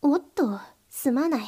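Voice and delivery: breathy whispered mock apology; whispered aside. Mistress mock-apologising to the slave after a slap, whispered. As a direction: drop to a whisper, faking regret.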